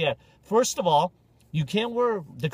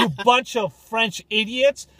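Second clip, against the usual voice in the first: ranting through laughter; 4 semitones higher, 5 dB louder, slower than usual. Acted. Ranting at the French.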